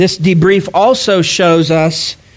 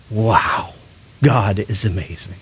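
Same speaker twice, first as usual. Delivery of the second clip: quiet awe; 8 semitones lower, 7 dB quieter than usual. Retold or imitated. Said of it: "hear Paul's stories and not go".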